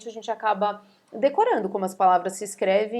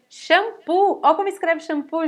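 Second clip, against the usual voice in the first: raised, louder call-out to the class; animated exclamation; 7 semitones higher, 6 dB louder than usual. Real, not acted. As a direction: flag the tricky word with high, loud emphasis. Teacher exclaims over a tricky spelling.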